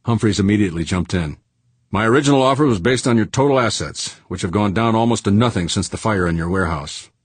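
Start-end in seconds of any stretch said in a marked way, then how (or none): 1.9-7.1 pitched-up negotiating boss; brusque tycoon. Acted. Tycoon cutting in on the price, brisk and businesslike. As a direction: jump straight in with the offer.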